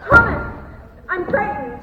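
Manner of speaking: loud, high frightened cry. Acted. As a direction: cry out for her brother in panic. Florence runs in scared.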